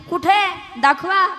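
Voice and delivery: excited village woman; eager demand. Retold or imitated. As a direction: demand to see it at once. Women impatiently demand to see it.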